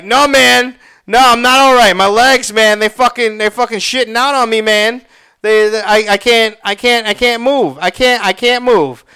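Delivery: loud, high, pained complaint; acted panicked outburst; frantic distress. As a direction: plead urgently that your body has failed you. Frantic answer to friend about cramping.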